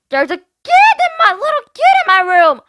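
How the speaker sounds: put-on mean girl griping at her mom; spoiled girl whining. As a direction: whine like a spoiled rich girl. Mackenzie voiced.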